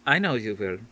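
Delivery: put-on reassuring, lightly Dutch older woman; soothing, faint Dutch accent. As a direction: comfort her, faintly Dutch. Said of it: "Missus Pennyworth soothed".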